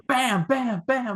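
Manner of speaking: high cartoon caveman kid calls; squeaky toddler shouting his name; high-pitched Bam Bam impression.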